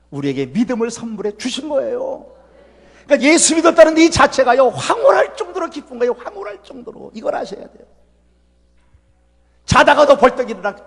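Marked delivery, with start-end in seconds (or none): 4.7-6.1 high, bright rising delight; rapturous sermon lift; ecstatic joy. Real, not acted. Preacher rejoicing. 6.1-7.1 high but hushed repeat; 황홀할 정도로 echoed quietly; soft echo. Real, not acted.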